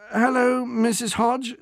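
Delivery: cheery delivery man. Acted. Delivery man greeting the old woman on the phone, cheery. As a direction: put on a bright call-centre manner. Bernard poses as Amazon.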